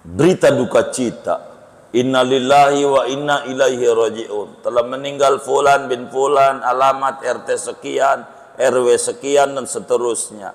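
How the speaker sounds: lightly imitated mosque announcer; mosque death announcement. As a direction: read out a death notice, formal and even. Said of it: "Ada pengumuman di masjid".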